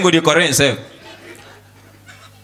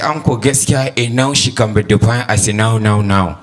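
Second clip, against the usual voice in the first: mock pupil; 9 semitones lower than usual. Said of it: "He said".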